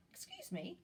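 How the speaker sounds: a tiny cricket clearing his throat politely; soft high whispered interruption; small cough. A narrator's reading. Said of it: "coughed a cricket".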